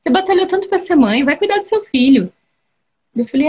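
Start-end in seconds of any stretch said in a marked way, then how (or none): 0.0-2.3 lightly voiced father, higher and insistent; a hint of a pleading dad, pitched up; father's advice. Father at the hospital urging his daughter, higher and insistent. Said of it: "olhou pra mim e falou assim".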